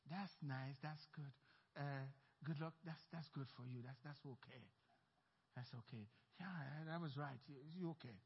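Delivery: very soft, low, brushing it off; dismissive mumble. Retold or imitated. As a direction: mutter it like a bored brush-off. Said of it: "when they say to me".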